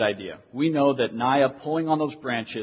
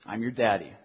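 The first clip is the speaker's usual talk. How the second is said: redemptive fatherly talk; 3 semitones lower, 3 dB quieter than usual. Retold or imitated. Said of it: "very direct and redemptive language".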